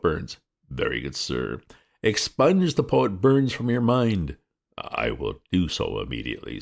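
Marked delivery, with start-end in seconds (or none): 2.0-4.4 "Expunge" hit hard, slow and higher; slow, stressed command, "Expunge" first; emphatic order. Acted. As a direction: order it out of his mind, slowly.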